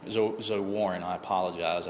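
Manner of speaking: talking around a wad of gum; words slightly mushy from chewing gum. Real, not acted. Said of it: "I've got gum in my mouth".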